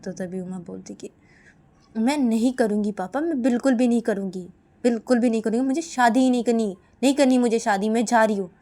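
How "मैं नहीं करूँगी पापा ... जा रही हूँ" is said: a touch of angry insistence, louder; lightly acted daughter refusing her father; loud, mildly raised protest; defiant refusal.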